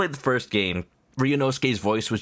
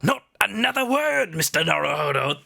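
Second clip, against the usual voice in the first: theatrical detective, lightly voiced; grand eccentric detective; Herlock Sholmes voice; 4 semitones higher than usual. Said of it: "missed doing his voice".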